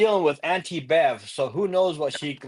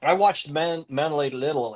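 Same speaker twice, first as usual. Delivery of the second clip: numb tongue. Real, not acted. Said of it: "my tongue is numb. I can't talk".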